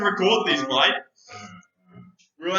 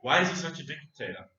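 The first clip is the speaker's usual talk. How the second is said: mock caller voice; 9 semitones lower, 11 dB quieter than usual. Caller asks question in odd voice.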